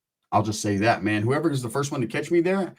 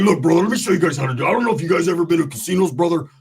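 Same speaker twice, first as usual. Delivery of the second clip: fast, loud, eager sales pitch; Roach's hype voice; 2 semitones higher, 4 dB louder, faster than usual. Retold or imitated. Roach pushing his friends to come smoke, fast and loud. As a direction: rush it like a hustler selling a plan.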